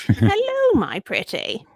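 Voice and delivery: cackling wicked witch greeting. Acted. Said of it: "that witch voice".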